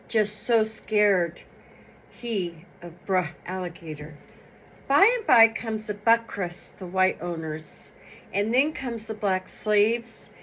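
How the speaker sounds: steady storytelling voice, reading to an audience; folk tale reading. Acted. Reader tells the Black History Month folk tale, storytelling. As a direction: tell it like an old folk tale.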